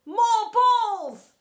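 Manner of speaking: slow, loud, high proclamation; snapping. A narrator's reading. Teacher stuffing balls in boy's cupboard, snapped roar. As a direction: declare it slowly, swelling to a roar. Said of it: "snapped Pent".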